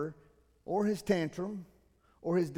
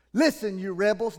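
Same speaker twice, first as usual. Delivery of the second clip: angry shout; 6 dB louder than usual. Acted. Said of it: "He shouts it".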